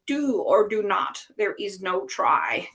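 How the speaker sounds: slow, lightly voiced wise old Yoda; a hint of Yoda, unhurried; Yoda impression. Speaker to the audience, a mild slow Yoda impression. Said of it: "that's my impression of Yoda".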